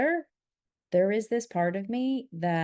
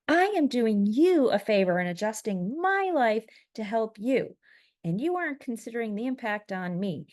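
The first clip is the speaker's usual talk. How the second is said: emphatic, raised-pitch reading of a heated text; all-caps indignation; 3 semitones higher than usual. Retold or imitated. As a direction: punch the pronouns like capital letters. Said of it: "all capital letters, by the way".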